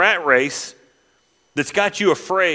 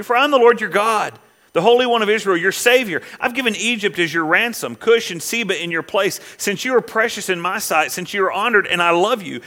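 preaching scripture; 2 semitones higher than usual. Acted. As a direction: proclaim the promise with fire. Reads Isaiah passage with fervour.

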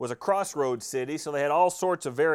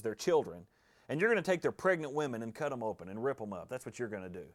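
grave foretelling; 5 semitones lower, 6 dB quieter than usual. Acted. Elisha solemnly foretells Hazael's atrocities.

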